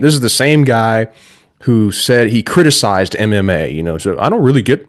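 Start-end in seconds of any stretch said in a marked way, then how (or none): 4.2-4.9 higher-pitched mock Cena, like a politician; John Cena impression. Podcaster quoting Cena's criticism of MMA, light impression. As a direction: lightly imitate a wrestler talking like a politician. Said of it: "You're nailing back the, uh, impression".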